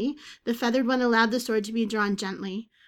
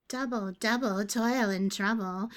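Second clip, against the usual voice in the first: raspy bird creature. Acted. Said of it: "rasped the feathered being".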